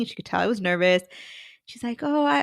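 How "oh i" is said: higher lady voice; interviewer's high reply; mimicking the interviewer. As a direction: her voice pitched well up.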